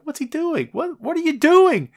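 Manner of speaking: high-pitched mock bewilderment; Big Show. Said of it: "Show's like".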